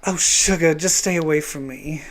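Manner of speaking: lightly put-on Southern accent; Southern belle accent, lightly done; Rogue. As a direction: say it with a Southern twang. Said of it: "you just do the accent".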